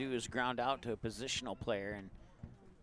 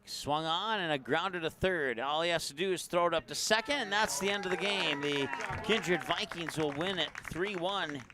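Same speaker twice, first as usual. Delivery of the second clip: excited; 4 semitones higher, 3 dB louder than usual. Real, not acted. Game-ending grounder call.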